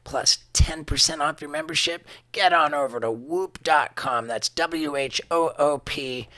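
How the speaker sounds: upbeat sponsor read, selling it. Acted. Host pitching his sponsor to listeners, upbeat ad read. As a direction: pitch the tracker to listeners like a friend.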